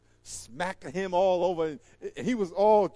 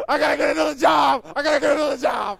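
high, loud, panicked yell, the second time faster; panicked shout; 8 semitones higher, 12 dB louder, faster than usual. Retold or imitated. Local guy holding the snake yells in panic to nobody. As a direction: shout it like you want out of this job now.

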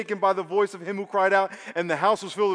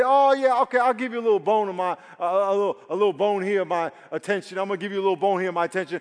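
mock half-hearted offer; 2 semitones higher, 3 dB louder, faster than usual. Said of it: "I don't want you to say".

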